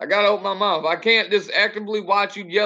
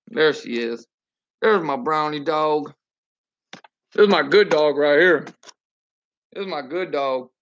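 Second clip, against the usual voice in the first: low doting dog praise; 5 semitones lower than usual. Real, not acted.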